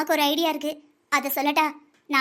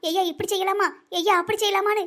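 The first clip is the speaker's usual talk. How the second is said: put-on lightly acts out her old deferential asking; imitating asking son; 2 semitones higher than usual. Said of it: "உனக்கு பதினஞ்சு வயசு ஆனதுலேருந்து".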